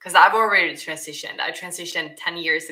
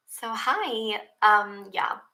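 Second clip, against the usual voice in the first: nicer Swedish voice; 4 semitones higher, much slower than usual. Retold or imitated. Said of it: "when I speak Swedish, I'm like".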